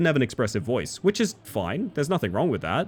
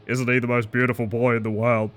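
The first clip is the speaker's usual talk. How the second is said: flat voice full of doting words; lightly voiced stern man gushing over his dog; a hint of a deadpan café owner praising his poodle; monotone doting owner; 2 semitones lower than usual. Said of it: "Very serious giant man".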